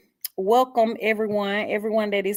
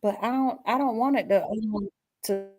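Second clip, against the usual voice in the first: choppy breaking audio; glitching audio; 5 dB quieter than usual. Real, not acted. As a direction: voice cutting in and out. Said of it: "it's breaking".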